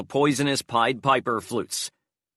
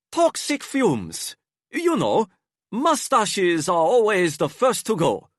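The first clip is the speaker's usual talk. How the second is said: disguised bluff; 8 semitones higher, 4 dB louder than usual. A narrator's reading. Enrique bluffs about the mustache, high put-on voice. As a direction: bluff it out, breezy.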